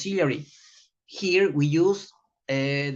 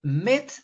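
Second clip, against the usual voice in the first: Mit said alone, punched; Mit, the stressed part; stressed syllable; 5 semitones higher than usual. Shown as a demonstration. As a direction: isolate and hit Mit. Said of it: "the final sound is underlined".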